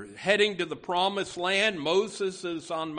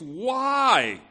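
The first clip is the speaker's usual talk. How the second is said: pained cry; 3 semitones lower, 5 dB louder than usual. Acted. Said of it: "you can hear the pain in the psalmist's voice".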